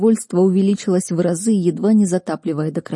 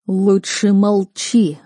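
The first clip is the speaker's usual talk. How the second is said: growling rector; 2 semitones higher, 4 dB louder, much slower than usual. A narrator's reading. Rector growls at the fire mage to shut up, slow and menacing. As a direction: growl the warning out slowly. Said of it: "рыкнул на него глава Академии".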